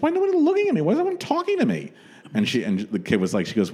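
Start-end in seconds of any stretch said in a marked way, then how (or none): 0.0-1.9 high, plaintive diva voice; whiny starlet asking for attention; Elizabeth Taylor impression.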